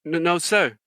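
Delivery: recruit private. Retold or imitated. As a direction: imitate a private answering his sergeant. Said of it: "he's like".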